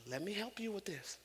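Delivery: hushed, close whisper; whispered aside. Acted. Preacher leans in to the congregation, whispering. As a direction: lean in and whisper it.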